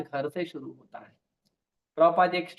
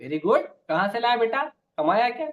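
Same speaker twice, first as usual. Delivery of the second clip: pleased mother; 4 semitones higher than usual. Retold or imitated. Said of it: "माँ खुश हो गई".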